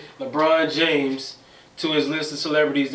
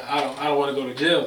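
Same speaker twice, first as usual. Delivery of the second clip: mock crying plea; faster than usual. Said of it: "He crying".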